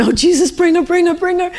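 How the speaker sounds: high, repeated anxious plea; urgent pleading prayer. Retold or imitated. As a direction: beg Jesus urgently as you walk. Retells praying urgently while walking.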